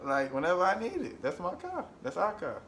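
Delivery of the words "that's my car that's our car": mock indignant claim. Real, not acted. Mock claims her car.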